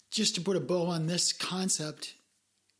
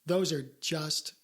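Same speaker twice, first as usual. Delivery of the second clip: sarcastic compliment; 4 semitones lower than usual. Shown as a demonstration. Showing cohost how sarcasm dodges censors, sarcastic. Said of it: "I'm not even good at sarcasm".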